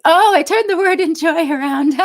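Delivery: the penny drops, with delight; delighted realisation. Real, not acted. Reader works out a viewer's word puzzle, delighted realisation.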